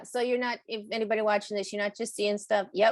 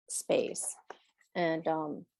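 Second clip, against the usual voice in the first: whisper; 4 semitones lower, 5 dB quieter, much slower than usual. Real, not acted. Trailing into a whisper.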